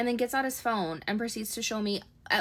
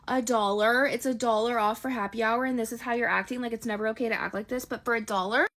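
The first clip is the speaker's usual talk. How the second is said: louder disbelieving scold; incredulous outburst; 2 semitones higher, 4 dB louder than usual. Retold or imitated. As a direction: spell out how petty this is, with force. Scolding date over one dollar.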